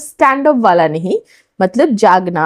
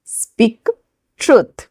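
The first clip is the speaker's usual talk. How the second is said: slow, each word apart for the class. Shown as a demonstration. Teacher to students, separating each word slowly. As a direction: spell it out slowly with a gap. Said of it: "English में बोलेंगे".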